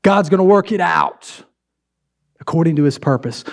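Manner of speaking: mocking cheer. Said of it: "we pull it out and we say".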